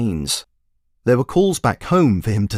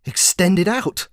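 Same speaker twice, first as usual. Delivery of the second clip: lecturing wizard; 9 semitones higher than usual. Acted. Wizard lecturing the commander on magic, high and grand. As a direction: proclaim it like a grand sage. Wizard announcing his plan.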